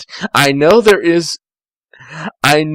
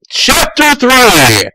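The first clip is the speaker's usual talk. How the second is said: slow, loud, higher heading; grand announcement; 10 semitones higher, 5 dB louder, much slower than usual. Acted. Reader introducing the next chapter, grand slow announcement. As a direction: boom out the chapter title.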